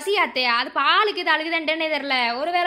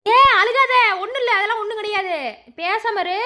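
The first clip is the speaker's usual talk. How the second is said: firm scolding; 4 semitones higher than usual. Acted. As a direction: cut through her weeping with a raised voice. Scolding weeping daughter-in-law to stop.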